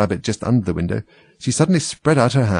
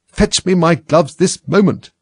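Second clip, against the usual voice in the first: high, loud, drawn-out command; slow, emphatic demand in a raised voice; imperious order; 9 semitones higher, 6 dB louder, slower than usual. A narrator's reading. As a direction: order a servant about impatiently. Rabbit orders the maid about.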